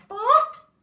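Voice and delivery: high, loud pop; goose pop. Acted. Goose popping out an egg, high and loud. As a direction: squeak it out like the goose.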